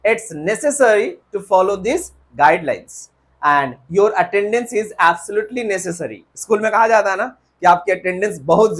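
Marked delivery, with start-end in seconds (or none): 0.1-6.2 very slow model sentence; slow corrected example. Shown as a demonstration. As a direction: dictate the correct line slowly. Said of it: "No sir".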